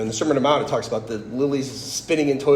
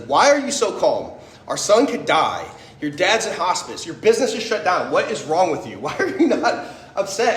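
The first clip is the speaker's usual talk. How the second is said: imitating an exasperated, raised-pitch scolding; angry wife; 6 semitones higher than usual. Wife confronting her too-calm husband, mock angry and exasperated. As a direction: demand answers in disbelief, pitch climbing, a laugh slipping in. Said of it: "was really angry with me".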